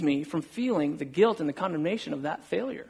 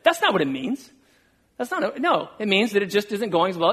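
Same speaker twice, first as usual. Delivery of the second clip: higher-pitched, mock self-justifying protest; defensive protest; 4 semitones higher than usual. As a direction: imitate yourself arguing back defensively. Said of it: "working it out in my defense".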